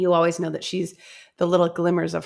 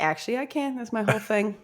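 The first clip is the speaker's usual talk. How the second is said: smug, softer mock authority; smug reply; 5 semitones higher, 4 dB quieter, faster than usual. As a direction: coolly put him in his place. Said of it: "And he's like".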